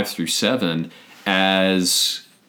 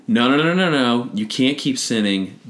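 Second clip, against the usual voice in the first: mock scolding; 2 semitones higher than usual. Acting out what Paul doesn't say, mock scolding. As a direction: rattle off the noes in imitation of a scold. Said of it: "he doesn't say".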